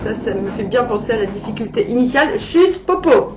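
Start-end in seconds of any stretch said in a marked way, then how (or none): 2.4-3.4 loud, high call to hush a pet; sharp shush. Real, not acted. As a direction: snap out a quick hush at the pet. Hushing her pet mid-video. (crier pour faire taire l'animal)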